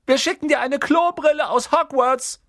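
put-on high, loud boyish joking; teasing twin. Twin joking to his weeping little sister, high and loud. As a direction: tease the crying sister cheerfully.

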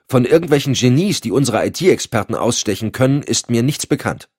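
objecting to his boss, bursting out. Acted. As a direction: let it burst out of him, a little indignant. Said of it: "platzte es aus ihm heraus".

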